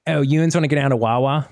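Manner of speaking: lightly put-on Pittsburgh accent; mock Pittsburgh dialect question. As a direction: imitate a Pittsburgh local asking. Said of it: "That's what they say".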